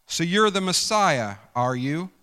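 sneering challenge from a scoffing criminal; sarcastic scoff. Acted. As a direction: taunt him with sarcasm. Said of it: "You can hear the sarcasm".

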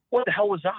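high, sharp, incredulous challenge; indignant Jim. Retold or imitated. Boss confronting his cameraman, high and indignant. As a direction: demand an answer, outraged. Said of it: "he's like".

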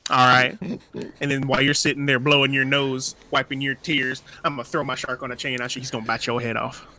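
put-on cowboy with a southern accent. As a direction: play a southern cowboy stating his attack. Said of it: "where's that southern accent".

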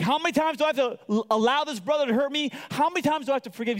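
high, hurried complaint as acted Peter; exasperated questioning. Peter asking how often to forgive his brother, exasperated.

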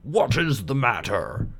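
slow, dignified, pompous groundhog; slow, pompous old groundhog. Acted. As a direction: speak with stuck-up dignity. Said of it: "He might have said".

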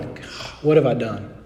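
breathed, low whisper of regret; guilty whisper. Retold or imitated. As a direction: whisper it to yourself, crushed by guilt. Guilt on the bench, alone.

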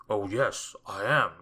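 loud, emphatic fib; lying. A narrator's reading. Mister Mean lying to the wizard about being poor, emphatic. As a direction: lie with firm insistence. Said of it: "lied Mister Mean".

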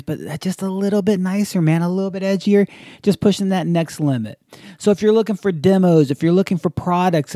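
upbeat, even podcast ad read; sponsor ad read. Acted. Host thanks the podcast's sponsor, ad read. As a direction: sell it like a loyal fan.

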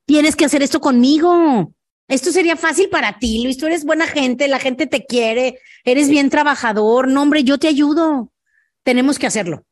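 rally him like a friend who won't take no; encouraging pep talk. Acted. Pep talk to a hesitant prospect.

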